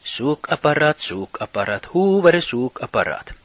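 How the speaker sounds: chanted jeer with high, loud bursts; boys' taunting shouts. Retold or imitated. Small boys shouting at the goalkeeper, jeering chant. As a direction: heckle the keeper in repeated calls. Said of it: "började småpojkar ropa till målvakten".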